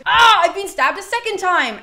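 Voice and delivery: overplayed wounded cry; mock dying cry. Agamemnon calling out a second stab, hammed-up loud cry. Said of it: "Agamemnon goes".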